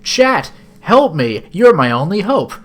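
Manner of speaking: hammed-up damsel in distress; mock desperate plea. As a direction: beg the viewers melodramatically. Theatrical plea to the viewers.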